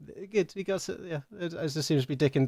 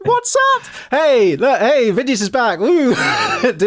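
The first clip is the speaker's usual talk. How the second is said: excited; 11 semitones higher, 8 dB louder than usual. Real, not acted. Greeting a returning friend.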